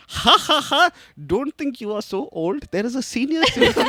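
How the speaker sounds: loud, high-pitched hammed-up uncle with fake laugh; mocking uncle impression. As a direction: mimic a friend as a hearty old uncle. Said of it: "making me sound like a fucking uncle".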